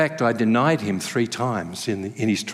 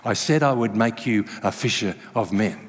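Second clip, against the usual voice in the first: gentle teasing Jesus; 5 semitones lower than usual. Pretend. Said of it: "heard Jesus say".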